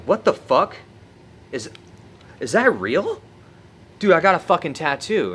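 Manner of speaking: high, loud shocked outburst; shocked disbelief. Retold or imitated. Discovering a surprise tattoo at breakfast, high shocked yelling. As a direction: yelp it out in sudden disbelief.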